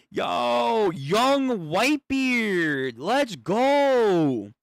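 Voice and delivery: shouting with fan excitement; hyped cheer. Real, not acted.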